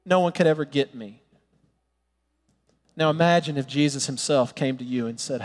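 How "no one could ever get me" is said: despairing thought. Retold or imitated. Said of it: "we think".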